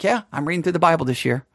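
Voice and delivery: quick, offhand mock indifference; unexcited. Lukewarm reader answering about Bible reading, unexcited. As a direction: toss it off without any enthusiasm. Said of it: "you don't sound too excited about it".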